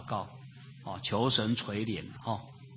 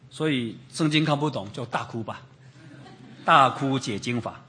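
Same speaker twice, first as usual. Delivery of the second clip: laughing joke. Real, not acted. Joking about weeping to understand scripture.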